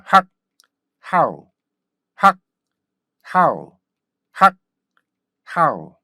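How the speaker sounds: abrupt 학, pause, then falling "how"; stop-sound drill. Shown as a demonstration. Teacher drills the correct sound in steps, short 학 then "how". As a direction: alternate a cut-off 학 with punchy "how". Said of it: "이렇게 발음돼야 돼요".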